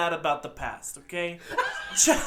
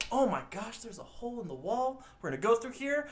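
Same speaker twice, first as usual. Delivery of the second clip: higher-pitched eager discovery; mock wonder; 4 semitones higher than usual. Dora finding a hole in the wall, mock wonder. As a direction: imitate an eager young explorer, pitched up.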